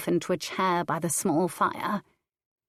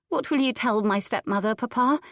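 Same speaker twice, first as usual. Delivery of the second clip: a hint of a higher child's voice, calm now; lightly voiced young girl; 5 semitones higher than usual. Girl asks her father, lightly childlike.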